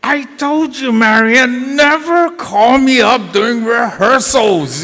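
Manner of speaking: high, loud mock scolding; retold upset husband. Teacher scolds his wife for calling mid-rehearsal, angry. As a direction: imitate an angry husband laying down the law. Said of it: "And he was so upset".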